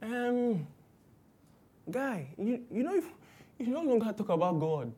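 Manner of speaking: nagging relative. Retold or imitated. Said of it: "And they meet you and say".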